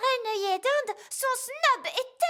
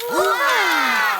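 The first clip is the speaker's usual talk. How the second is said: delighted cry; 6 dB louder than usual. Acted. Toy fixed, child delighted.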